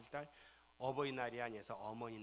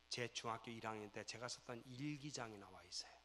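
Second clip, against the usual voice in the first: ordinary delivery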